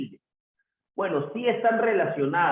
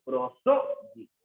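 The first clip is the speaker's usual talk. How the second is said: "prosódico" slowly broken into syllables; slow teaching demo of "prosódico"; 3 semitones lower, slower than usual. Shown as a demonstration. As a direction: split "prosódico" into its syllables for the class. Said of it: "esta palabra tiene cuatro sílabas".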